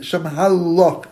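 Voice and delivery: "Shem Halach" said slowly and distinctly; slow, deliberate "Shem Halach"; careful separation. Shown as a demonstration. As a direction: draw out "Halach" so no word is confused. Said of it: "confuse the words".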